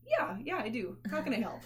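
sweet sarcasm to a dumb question; sarcastic helpful. Retold or imitated. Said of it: "and then I'm like".

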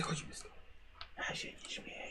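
urgent unvoiced whisper. Real, not acted. Friend urging the group away from danger, whispered. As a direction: hiss it to your friends.

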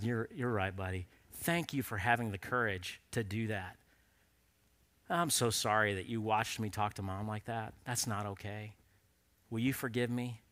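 low, soft, tender fatherly voice; gentle apology. Retold or imitated. Father apologizes to his son for yelling at Mom, gently. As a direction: apologize sincerely to a small child, lowering your voice.

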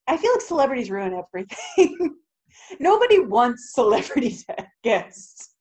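laughing through the words; laughing complaint. Real, not acted. Co-host gripes about celebrity guests, laughing as she goes. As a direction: let laughs break up the gripe. Laughing at own blunt opinion.

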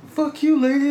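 very high, indignant mock cursing; retold angry comeback. Teenager curses back at the lady, high-pitched mock outrage.

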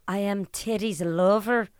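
shaky-handed attempt at Scottish accent; bad Scottish accent. Shown as a demonstration. Speaker showing their practice phrase, bad Scottish accent. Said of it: "I can't do a Scottish accent".

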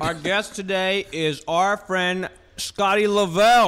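slow, chewing between words; mouth full. Real, not acted. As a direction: speak around a bite of noodles. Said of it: "Sorry, I'm eating noodles".

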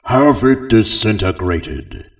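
loud, slow Hutt command; loud, slow angry alien boss; roared order. Acted. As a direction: bellow the execution order. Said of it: "he didn't care and roared".

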